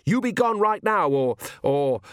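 high urgent cry, faltering at the end; high yell breaking into a stammer; screamed threat. A narrator's reading. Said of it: "he screamed".

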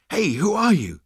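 high, loud alarmed demand; panicked panting. A narrator's reading. Zaphod to a voice from nowhere, panicked. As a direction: call out in a fluster. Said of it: "panted Zaphod".

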